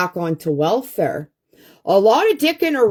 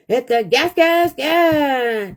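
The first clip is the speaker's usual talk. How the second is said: excited urging; 5 semitones higher, 3 dB louder, slower than usual. Real, not acted.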